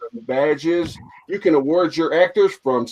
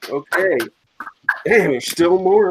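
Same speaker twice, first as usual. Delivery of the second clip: running out of air; 3 semitones higher than usual. Real, not acted. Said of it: "I'm running out of breath".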